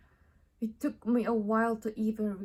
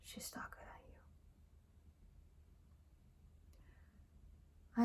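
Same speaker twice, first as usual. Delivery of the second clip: much softer, clipped-back imitation of a terse remark; monosyllabic; 14 dB quieter than usual. Partner commenting on the baby's skin, monosyllabic and very quiet. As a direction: say it low-key, in toneless single syllables. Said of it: "Granted it monosybically, like".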